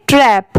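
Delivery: "ट्रैप" ending on p, with no d; pronunciation demo. Shown as a demonstration. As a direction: say "ट्रैप" as one syllable closed by p. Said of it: "इसे हम क्या पढ़ेंगे". ("ट्रैप" सिर्फ प पर खत्म, बिना ड के)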